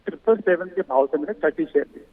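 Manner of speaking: choppy call audio dropping out; breaking up space radio. Real, not acted. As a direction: voice cutting out on a bad phone line. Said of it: "आपकी आवाज cut रही है sir".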